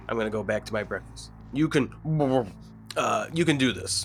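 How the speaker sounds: talking while chewing; words round a bite of food; mouth full. Real, not acted. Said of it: "talk with your mouth full".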